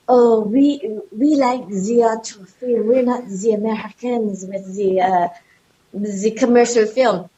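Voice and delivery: a hammed-up French accent, slowed a little; mock French accent. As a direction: play a snooty Frenchman in a put-on French accent. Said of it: "I made a racist accent".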